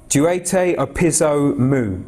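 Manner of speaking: "Duete opizo mu" spoken slowly, syllable by syllable; slow Greek quote. Shown as a demonstration. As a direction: carefully sound out "Duete opizo mu". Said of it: "That's the Greek words for".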